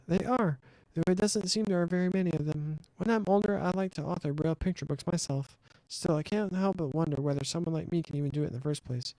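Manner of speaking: a hint of a shy, hopeful child; modest young dreamer. Voices Shizuku in game dialogue.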